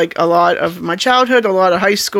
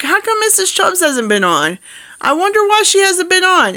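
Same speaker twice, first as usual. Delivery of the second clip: imitating a puzzled viewer; 11 semitones higher than usual. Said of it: "you'd be like".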